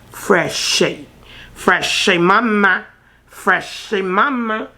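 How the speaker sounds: sing-song it to hype the product; playful chant; hyped up. Real, not acted. Hyping up new product.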